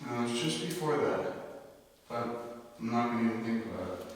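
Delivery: quick hushed nervous whisper; nervous night vlog whisper. Real, not acted. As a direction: brush it off under your breath. Spooked after hearing voices.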